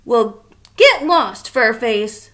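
a grouch telling a monster to get lost; Oscar grouch voice. Acted. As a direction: grouch shooing a visitor. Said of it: "said Oscar".

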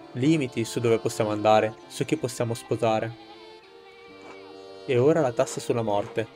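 steady orator addressing a crowd; rousing speech. Acted. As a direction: speak to the villagers like a rebel leader. Reads a rebel's speech to villagers.

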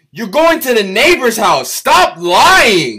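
ordinary talk, nothing marked

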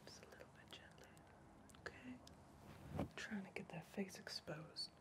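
soft unvoiced whisper. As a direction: keep it all breath, no voice. Whispered roleplay throughout.

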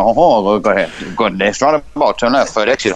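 put-on French-accented sat-nav directions. Sat nav giving roundabout directions, French accent. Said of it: "French, like".

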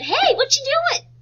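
loud, high, slow pesky sibling call; sibling interrupting a video game, loud. Retold or imitated. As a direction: barge in like a nosy little brother. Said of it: "a brother or sister ... came in and said".

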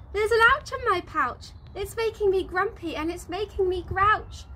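high, loud whining shout. A narrator's reading. Wallaby complaining to mummy dingo, high loud shout. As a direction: cry it out like a cross little joey. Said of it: "Willoughby shouts".

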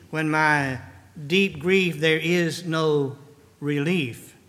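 a solemn reading of hymn verses; poem reading. Acted. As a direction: read the hymn lines gently, like a prayer. Reads hymn lyrics as poem.

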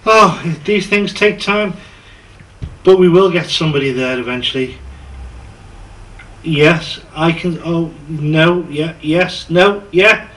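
babbling yes and no in panic; flustered and frantic. Acted. Flustered acted phone juggling.

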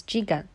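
jigan said slowly, as ji-gan; Japanese reading jigan. Shown as a demonstration. Showing listeners how Japanese reads the word, slow and careful. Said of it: "read as".

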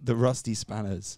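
slow, careful correction. Shown as a demonstration. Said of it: "Is that what you're saying?".

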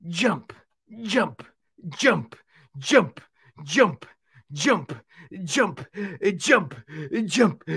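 puppet uncle counting jumps with effort; short bursts of "jump" with little grunts between; puffing from jumping. Pretend. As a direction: play winded while exercising. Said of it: "I'm a little bit out of breath".

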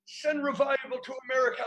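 model prayer. Shown as a demonstration. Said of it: "I want you to say it".

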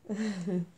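brief amused chuckle; small chuckle. Real, not acted. Crafter still amused by her friend's funny gift, small chuckle. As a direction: let out a small leftover giggle.

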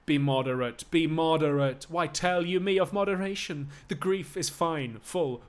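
loud, raw outcry of grief; anguished grief. Acted. Lover refusing moderation, loud anguished grief. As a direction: rail against being told to calm down. Cressida grieves at parting news.

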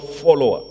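"follower" set off after a pause; "follower" as a firm, separate word; emphasized word. Real, not acted. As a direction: stress "follower" as the key word. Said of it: "I'm emphasizing that word".

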